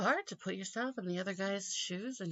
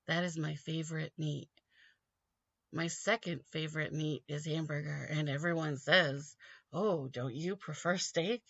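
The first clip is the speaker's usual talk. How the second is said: robotic Romney. Retold or imitated. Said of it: "He sounds like what C three P O would try to do".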